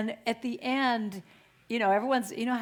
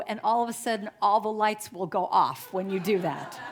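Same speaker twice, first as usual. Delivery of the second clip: lightly imitated cabin announcement, raised pitch; flight attendant announcement; 3 semitones higher, 4 dB louder than usual. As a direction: project instructions down the whole plane. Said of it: "flight attendant comes on the loudspeaker".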